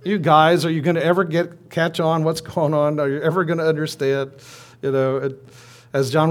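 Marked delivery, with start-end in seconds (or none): 0.0-4.3 exasperated Jesus. Retold or imitated. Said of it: "he wants to pull his hair out".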